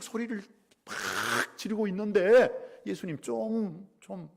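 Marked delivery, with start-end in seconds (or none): 2.9-4.3 drawn-out, higher-pitched nagging; acted exasperated urging; exasperated plea. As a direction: beg with worn-out patience. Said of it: "좀 조용하게 해달라는 거지".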